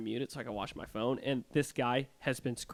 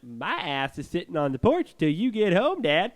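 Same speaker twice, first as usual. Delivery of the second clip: loud, higher, insistent complaint to Dad; loud retold protest; 5 semitones higher, 9 dB louder than usual. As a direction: act out an upset kid protesting loudly on the phone. Retold upset phone call to Dad.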